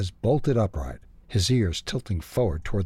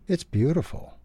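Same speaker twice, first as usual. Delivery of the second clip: high, hushed-in-awe slow answer; slow reply; 7 semitones higher than usual. A narrator's reading. Martinez tells Ralph of the snowy view, slowly. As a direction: answer slowly, pitched up in wonder. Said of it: "Martinez replied slowly".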